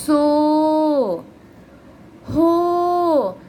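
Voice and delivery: simple, easy recitation of सो हो; reading syllables aloud. Shown as a demonstration. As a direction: calmly model each syllable for the class. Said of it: "इसका उच्चारण बहुत ही आराम से".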